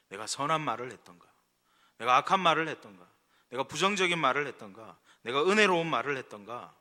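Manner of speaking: loud, insistent preaching questions. Real, not acted. Preacher urging the congregation to examine their words, forceful preaching. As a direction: press each question home like a preacher.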